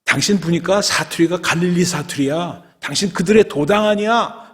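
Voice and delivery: high, insistent accusation; accusing bystanders. Acted. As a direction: point him out loudly, pressing the charge. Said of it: "사람들이 아이덴티파이 합니다".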